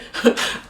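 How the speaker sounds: voiceless little laugh; re-enacted laugh. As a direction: let out a breathy disbelieving laugh. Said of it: "I laugh".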